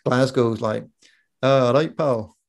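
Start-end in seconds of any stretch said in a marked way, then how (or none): 1.4-2.4 rough attempt at a Glaswegian accent. Shown as a demonstration. Man demonstrating Scottish accents to friends, imitated Glaswegian accent. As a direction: give an idea of a Glasgow accent, punched opening. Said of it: "you got the Glaswegian accent".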